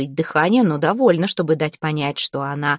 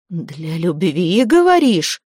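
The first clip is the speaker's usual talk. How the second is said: mocking repeat; slower than usual. The dead man mocks Zateya's excuse with scorn. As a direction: throw her words back with scorn. Ghost mocks her answer.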